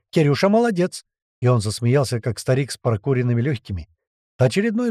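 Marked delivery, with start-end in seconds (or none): 0.1-1.0 high self-praising bird voice; squeaky parrot. A narrator's reading. Parrot praising itself after a taunt, squeaking. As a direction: squawk your own praise, pitched up. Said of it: "снова пропищал попугай".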